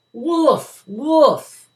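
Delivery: high, loud yell. A narrator's reading. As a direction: call out across the meadow. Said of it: "the boy yelled out again".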